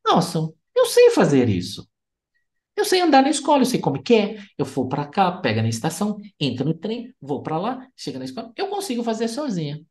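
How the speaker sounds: put-on boy bragging he can do it alone; proud little boy. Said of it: "esse menino pensou". (menino orgulhoso e animado, voz mais aguda e forte)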